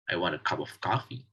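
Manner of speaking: "of" unstressed, run into "cup"; quick, with "of" given no stress; weak form of of. Shown as a demonstration. Teacher giving a weak-form example, "of" left unstressed. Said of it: "does not contain stress at all".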